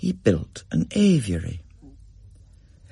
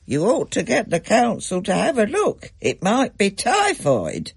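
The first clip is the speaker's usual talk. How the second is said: Gran; 9 semitones higher than usual. A narrator's reading. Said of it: "Gran said".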